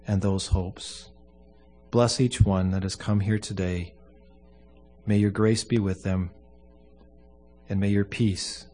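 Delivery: solemn, measured funeral prayer. Acted. Pastor prays at a funeral.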